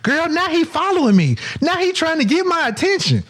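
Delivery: put-on girl gossiping to friend. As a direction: dish to your girl about the creep. Voicing girl texting friend.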